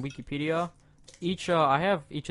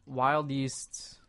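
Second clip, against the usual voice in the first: halting, word by word reading; slow, stumbling over each word; staccato; much slower than usual. Real, not acted. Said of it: "One word at a time".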